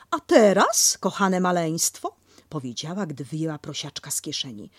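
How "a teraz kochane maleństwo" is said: put-on a bright mother Kanga calling her baby; Kanga speaking. Kanga voiced in story.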